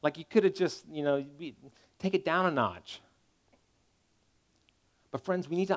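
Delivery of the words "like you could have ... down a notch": much softer, a hushed grumble aimed at God; quiet mock protest to God; mock complaint. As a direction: murmur it like a private objection. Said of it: "you're like".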